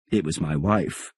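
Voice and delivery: emphasis falling on "wife"; stress on "wife". A narrator's reading. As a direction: lean on the last word, "wife". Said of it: "emphasis on the last word".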